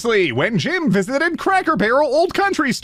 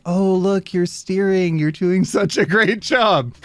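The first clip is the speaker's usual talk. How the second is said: lightly voiced encouraging parent, pitched up; parent praising toddler. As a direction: humour a small child with mock praise. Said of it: "be like".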